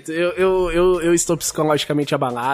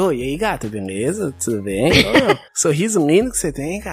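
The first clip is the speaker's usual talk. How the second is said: pickup line demo; 4 semitones lower than usual. Shown as a demonstration. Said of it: "vou testar agora".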